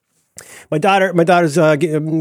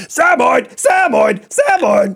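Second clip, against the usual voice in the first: higher, louder calling out of the breed name; calling the dog breed; 10 semitones higher, 3 dB louder, slower than usual. Retold or imitated. Retelling pointing at the dog from the window, higher calling out. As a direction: call it out to the daughter across the room. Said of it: "at his dog going".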